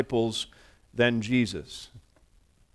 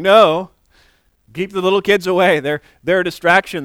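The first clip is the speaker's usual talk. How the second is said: forceful refusal; 4 semitones higher, 6 dB louder than usual. Retold or imitated. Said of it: "The disciples are saying".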